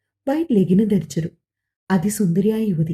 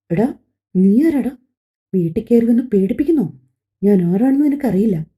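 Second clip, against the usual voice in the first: angry; 2 semitones higher than usual. Acted. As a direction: shout him down. She shouts at intruder. (ഉച്ചത്തിൽ ദേഷ്യം)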